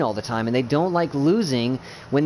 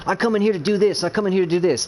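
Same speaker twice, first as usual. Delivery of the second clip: higher-pitched imitation of a self-important kid; mock kid attitude; 5 semitones higher than usual. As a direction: mimic a kid insisting, pitched up. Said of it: "the kid attitude of".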